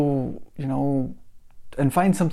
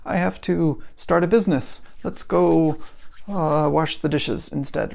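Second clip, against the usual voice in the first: mock cheerful; 4 semitones higher than usual. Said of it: "saying like".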